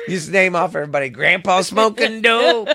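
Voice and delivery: laughing mockery of the lyric. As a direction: chuckle while you say it.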